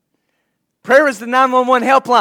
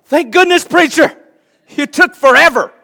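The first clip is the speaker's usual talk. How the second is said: higher and louder, teasing the preacher; mock relief; 7 semitones higher, 6 dB louder than usual. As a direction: play the bored congregant sighing in relief. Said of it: "So you're like".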